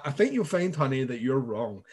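put-on mildly condescending to the child; lightly voiced know-it-all parent; smug parent. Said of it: "debates with my six-year-old".

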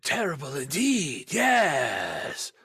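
grave, slow wand-maker solemnity; John Hurt impression. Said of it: "He was like".

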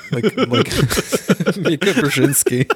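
giggling fit, high and breathless; cracking up mid-sentence; giddy relief. Real, not acted. Cracking up at own joke.

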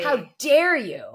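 slow mock indignation; acted affront with a drawn-out DARE. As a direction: draw it out slowly, deeply offended. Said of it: "it is so affronting".

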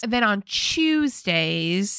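slow mock British, stretching TUESDAYS; British accent. Woman laying out the couple's weekly schedule, mock British accent. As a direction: draw it out in a light British accent. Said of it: "which British accent is that".

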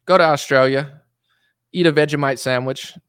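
amateur Australian accent, trying it out; imitation Australian, a little punched up. Shown as a demonstration. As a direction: put on a rough Aussie accent. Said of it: "trying to get my Australian accent down".

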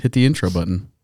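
flat, unexcited cue; low energy. Real, not acted. Cueing the show's intro, low energy. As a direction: say it with little energy. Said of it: "That was so not, you have some energy".

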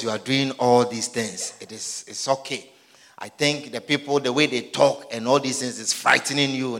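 Peter, low and soft, half laughing; hushed Peter. Acted. Peter taking Jesus aside, low soft coaxing voice. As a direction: coax him quietly like an older friend.

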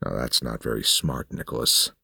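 patronize him calmly; smug old man. Acted.

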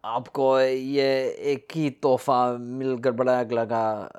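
slow, mimicked film Hindi; rough Hindi impression; imitated Hindi speech. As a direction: recite a half-remembered Hindi line slowly. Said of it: "This is in Hindi. He goes".

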